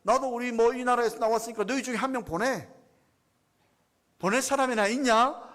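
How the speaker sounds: lightly voiced sneering Goliath; sneering sarcasm. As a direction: scoff at them, daring anyone to come. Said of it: "비아냥 그런 것처럼".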